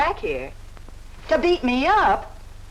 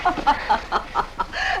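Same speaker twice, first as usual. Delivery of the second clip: stifled laughter that could pass for sobs; mocking laughter. Woman mistaken for crying by her suitor, laughing. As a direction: shake with breathy laughter. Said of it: "I'm laughing".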